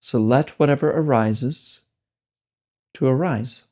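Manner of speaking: slow, measured guiding with long pauses; spacious, deliberate meditation-teacher delivery; guided meditation. Real, not acted. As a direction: lead a meditation unhurriedly, leaving space between phrases.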